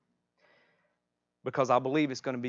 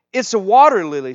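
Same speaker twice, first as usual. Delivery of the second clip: put-on louder, higher excited call from a child character; storybook shout; 9 semitones higher, 16 dB louder than usual. A narrator's reading. Youngest daughter spots the water lily, storybook shout. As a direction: call it out, lightly shouted within the reading. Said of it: "shouted the youngest daughter".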